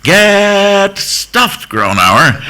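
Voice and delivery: high-pitched holler back at the radio; yelled retort. Retold or imitated. Troops answering the DJ through their radios, yelling. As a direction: imitate an annoyed soldier yelling. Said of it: "yell the G I equivalent".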